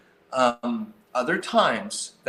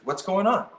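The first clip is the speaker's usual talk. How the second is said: inquisitive; 4 semitones higher, faster than usual. Shown as a demonstration. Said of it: "kind of this inquisitive".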